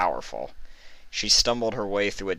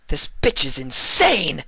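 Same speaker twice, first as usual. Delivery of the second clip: higher, louder, slow frantic outburst; panicked inner shout; 10 semitones higher, 9 dB louder than usual. A narrator's reading. Trixie thinking under fire, a frantic shout. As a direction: shout it as if she can't believe it. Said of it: "Trixie thought".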